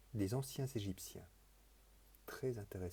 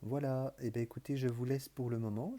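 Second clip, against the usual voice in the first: usual speaking voice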